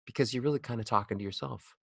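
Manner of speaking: soft, low, quick aside to oneself; inside voice. Shown as a demonstration. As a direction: talk quietly as if only to yourself. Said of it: "What are the sounds of inside voices".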